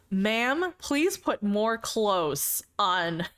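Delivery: slow, prim nerdy scolding; nerd voice. Retold or imitated. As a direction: lecture her like a stuffy nerd. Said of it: "The nerd voice".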